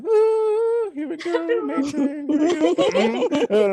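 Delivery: warm up into the creepy voice; shadow voice again. Acted. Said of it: "you don't want me to use that voice".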